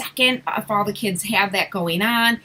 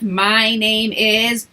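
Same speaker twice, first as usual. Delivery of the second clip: slow model phrase; 3 dB louder, much slower than usual. Shown as a demonstration. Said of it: "If they struggled with".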